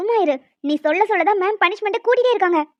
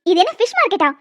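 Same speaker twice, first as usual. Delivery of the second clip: scolding teacher; 4 dB louder than usual. Acted. Teacher scolds noisy students.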